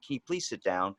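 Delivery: soft, courteous ask with please; polite request. Retold or imitated. Therapist politely asking the client to sit, softly. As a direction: gently ask them to sit. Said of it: "instead of being like".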